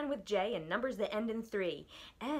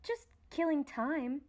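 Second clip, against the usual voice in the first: apologetic; 5 semitones higher, slower than usual. Acted. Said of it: "replied Milo apologetically".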